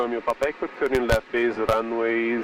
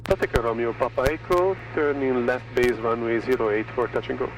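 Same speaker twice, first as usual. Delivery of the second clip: over a pilot headset. Real, not acted. Student radio call to tower.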